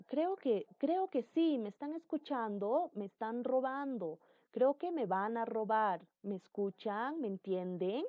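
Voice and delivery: projecting a little, short of shouting. Shown as a demonstration. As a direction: lift the voice to be understood. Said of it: "eso es vociferar, tratar de levantar un poco la voz".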